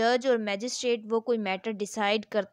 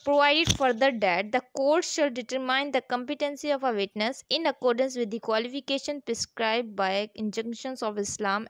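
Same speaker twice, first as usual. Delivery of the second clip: slow, deliberate, louder reading of the law text; statute reading; 3 dB louder, much slower than usual. Acted. Teacher reading the law to students, slow formal reading. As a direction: read each clause out slowly, like dictating.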